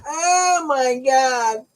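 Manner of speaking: slow, wheezing through laughter; laugh-cry the words out. Real, not acted. Laughing at the memory of his crazy old friend.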